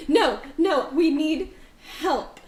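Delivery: high, loud desperate plea; pleading woman. Acted. GM as the frightened mother begging the party, high and pleading. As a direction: beg them for help.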